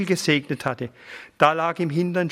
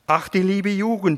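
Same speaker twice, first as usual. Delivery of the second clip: higher, sighing lament; 6 semitones higher than usual. A narrator's reading. Old pastor sighs over his confirmands, mildly sighing. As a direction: sigh it out over the young ones. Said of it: "seufzte er".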